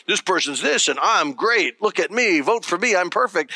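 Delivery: lightly mocked campaign candidate; a hint of a self-promoting politician; mock political ad. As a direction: run through an attack ad offhand. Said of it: "I'm not a political ad".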